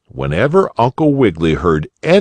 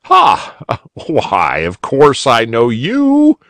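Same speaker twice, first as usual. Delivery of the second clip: a burst of laughter, then a louder jolly reply; 5 semitones higher, 4 dB louder, slower than usual. A narrator's reading. Bunny uncle laughing as he recognizes the boy, jolly. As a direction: laugh out loud and greet him gladly. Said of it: "cried Uncle Wiggily in his jolly voice".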